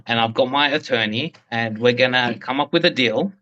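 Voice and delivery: hard-sell the feds like a swaggering boss; mock pitch to feds.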